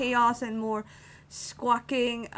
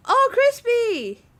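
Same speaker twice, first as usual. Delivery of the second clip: high, drawn-out "Oh, Crispy!" breaking into laughter; slow high call of a friend's name dissolving into a laugh; delighted laugh; 12 semitones higher, 6 dB louder, slower than usual. Real, not acted. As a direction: react with delighted disbelief, then laugh.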